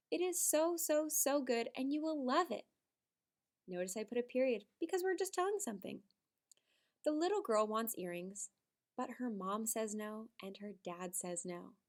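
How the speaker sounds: model reading. Shown as a demonstration. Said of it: "rewrite it together".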